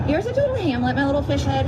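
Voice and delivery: high cooing pet voice. Real, not acted. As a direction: coo to the little pet.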